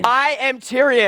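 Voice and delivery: slow, drawn-out declaration; Tyrion. Shown as a demonstration. Coach models Tyrion for student, slow and in character. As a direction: stretch out the character's name slowly. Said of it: "keep the Tyrion voice".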